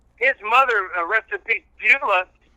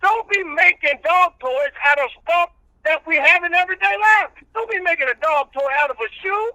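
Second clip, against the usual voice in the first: country preacher character; 9 semitones higher than usual. Acted. Old reverend preaching patience to the radio host, in full preacher voice. Reverend rants about dog toys.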